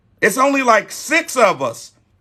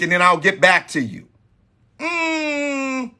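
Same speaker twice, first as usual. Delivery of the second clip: noncommittal, hesitant hmm's, a touch of a lightly voiced woman; imitating a bored woman putting off a date invite; unenthusiastic woman; 3 semitones higher than usual. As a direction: stall him with a lukewarm mm and vague excuses. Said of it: "She is not excited and enthusiastic".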